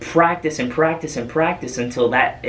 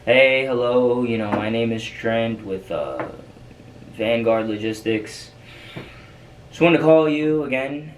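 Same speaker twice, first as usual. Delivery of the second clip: a listless, dutiful sales call with no spark; boring call voice. Shown as a demonstration. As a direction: read it like the hundredth cold call of the day. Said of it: "You don't wanna talk like that".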